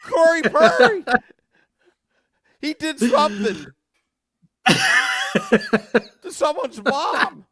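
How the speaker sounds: mock Beer Baron. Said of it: "Beer Baron".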